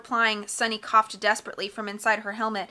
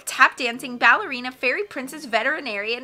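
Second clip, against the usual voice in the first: loud piercing brat; 3 semitones higher, 8 dB louder than usual. Acted. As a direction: announce it like a bratty star. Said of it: "loud, piercing voice of Carmelita".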